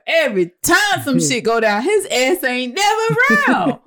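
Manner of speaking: high, worked-up comic complaint; animated exasperated rant. Retold or imitated. Host ranting to co-host about a character, exasperated.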